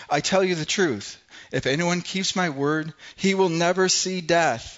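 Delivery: loud, high and forceful, slowing at the end; Jesus answering the Jews with a loud, solemn warning; proclaiming. Acted. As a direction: preach it like a rebuke to the crowd. Jesus rebuking the accusing crowd.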